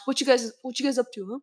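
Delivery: quick, prying parent voice; pry like a nosy parent; nosy Asian parent. Pretend. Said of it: "Asian parents would never just say".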